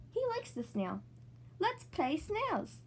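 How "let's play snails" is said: slow suggestion. Acted. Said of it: "says Peppa".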